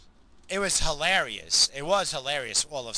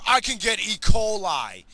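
put-on worried kid; 8 semitones higher, 10 dB louder than usual. Son worrying about swallowing fly.

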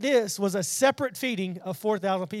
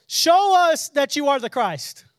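demanding; 5 semitones higher, 7 dB louder than usual. Acted. Pharisees demanding a sign.

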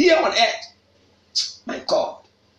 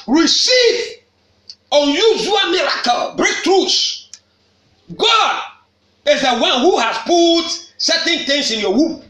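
preaching at full force; 4 semitones higher than usual. Real, not acted. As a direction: proclaim it like a blessing. Preacher declaring blessings aloud.

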